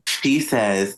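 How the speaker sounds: ordinary delivery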